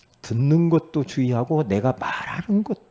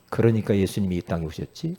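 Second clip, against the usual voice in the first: lower-pitched, gentle reminder; corrected, encouraging wording; 6 semitones lower than usual. Shown as a demonstration. Preacher shows how to rephrase harsh words, calm encouragement. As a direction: model a calm, reassuring answer. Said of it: "그렇게 말해요".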